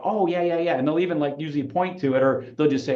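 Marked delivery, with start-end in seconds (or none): 0.0-0.8 hammed-up "oh yeah" a bit higher; big mock realization. Shown as a demonstration. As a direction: make a show of noticing. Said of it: "make a really big deal".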